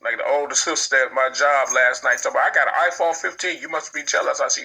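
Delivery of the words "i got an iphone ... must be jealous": high, boastful imitation, easing down; mock excited bragging. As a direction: mimic a coworker showing off. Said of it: "you excited about a phone".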